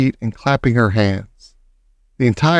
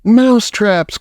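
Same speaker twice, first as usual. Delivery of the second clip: high, delighted witch cry; thrilled witch chorus; delighted witches; 9 semitones higher, 4 dB louder than usual. Acted. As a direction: shriek with delight. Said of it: "cried the witches".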